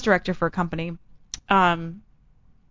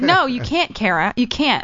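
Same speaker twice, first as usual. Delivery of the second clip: mock-exasperated boss, a little higher; exasperated refusal; 3 semitones higher, slower than usual. Manager turns down Kara's Halloween costume plea, exasperated. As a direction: imitate a manager putting her foot down.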